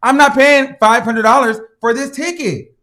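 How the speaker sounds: loud, high furious protest; real outrage at the fine; angry rant. Real, not acted. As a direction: yell it like you refuse to pay. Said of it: "ranting about the ticket".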